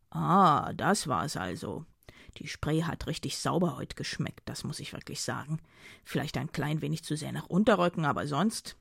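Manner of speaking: lightly voiced mocking man. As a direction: tease her in a low dry voice. Dido mocking her river swim.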